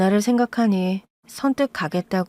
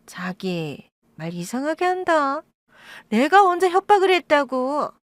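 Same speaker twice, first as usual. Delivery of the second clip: indignant protest; 7 semitones higher than usual. Acted. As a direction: push back hard, rising. Mother protests accusation.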